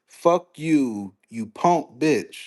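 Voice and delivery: slow, mock-refined delivery of a curse; elegant, calm insult. Shown as a demonstration. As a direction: curse someone out as if it were a polite compliment. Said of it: "in the most elegant way ever".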